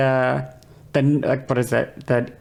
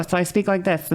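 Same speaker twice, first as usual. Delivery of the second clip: slightly raised trained speaking voice; a touch higher, settling toward usual; higher-resonance voice demo; 3 semitones higher than usual. Shown as a demonstration. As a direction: carry the exercise pitch lightly into speech. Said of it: "my frequency is higher".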